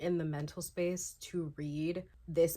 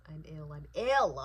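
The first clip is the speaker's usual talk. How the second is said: overwhelmed outburst; 3 semitones lower, 6 dB louder than usual. Real, not acted. Overwhelmed by book.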